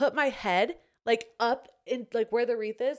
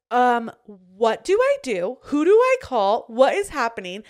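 retold panic; 7 dB louder than usual. Retold panic on finding nest.

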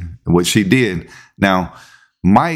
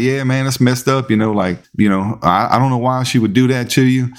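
mock sympathy; 3 semitones higher than usual. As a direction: pretend to console while secretly needling him. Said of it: "we heckling him".

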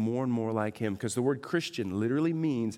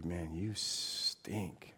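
enemy whispering. Acted. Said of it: "the enemy's whispering to you".

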